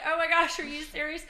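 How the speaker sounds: high, loud mock disbelief; loud, high-pitched protest; exasperated yell. Acting out her swim reaction.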